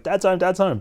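high, loud excited dog voice; excited, high-pitched squeal of welcome; dog going crazy. Retold or imitated. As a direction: voice an overjoyed dog greeting dad. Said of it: "just want him just to go crazy".

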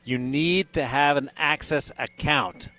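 upbeat on-air ticket giveaway; radio contest promo. Acted.

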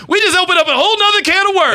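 high, laughing through the words; amused laughing aside. Real, not acted. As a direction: chuckle as you say it. Laughing over new topic.

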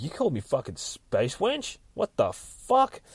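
acted-out outrage, pitch climbing; incredulous mock offence, drawing out the last words; indignant disbelief. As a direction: throw the insult back in rising disbelief. Retelling heroine's outraged challenge to villain.

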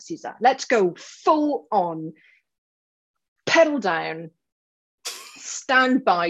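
rally her like a fired-up coach; passionate rant. Acted. Coach launches her announced rant at the client, fired up. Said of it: "here comes Ranty Sally".

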